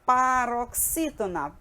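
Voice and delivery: "Paroxítona" slowly drawn out in chunks; slow, measured "Paroxítona" for pupils to remember; word-game recital. Shown as a demonstration. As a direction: stretch "Paroxítona" out like a classroom memory game. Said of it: "lembra daquela brincadeirinha que a gente fez".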